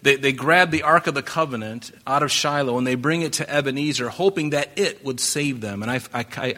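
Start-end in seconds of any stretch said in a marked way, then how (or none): 4.1-5.8 "it" stressed within the phrase. Shown as a demonstration. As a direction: lean on the word "it". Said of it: "I emphasize the word "it".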